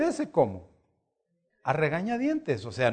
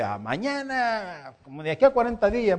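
reluctant, grudging; 5 semitones higher than usual. Retold or imitated. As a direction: drag out the first words as if forced to go. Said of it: "el profeta de mala gana va y dice".

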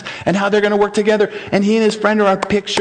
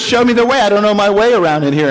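lightly voiced policeman, slightly raised pitch; brisk request from a policeman character; faster than usual. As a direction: policeman admitting he's lost, lightly acted. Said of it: "the policeman goes".

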